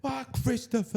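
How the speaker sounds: high, soft Sopranos Italian-American whine; Sopranos accent. Acted. Podcaster quoting The Sopranos, in a high mobster accent. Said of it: "like, from The Sopranos".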